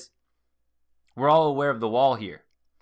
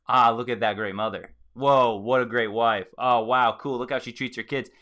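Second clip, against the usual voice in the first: admiring. Retold or imitated. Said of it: "I go".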